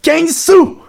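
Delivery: high, loud, indignant cry; mock outrage. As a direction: exclaim it in exaggerated disbelief. Outraged at cheaper English price.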